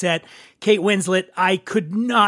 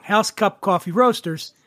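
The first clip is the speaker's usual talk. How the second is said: mocking the long name. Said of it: "That's long".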